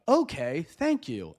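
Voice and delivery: lightly voiced robot reply; measured, mildly robotic phone-agent imitation; a hint of sluggish robot; robotic bot. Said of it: "too much like a robot".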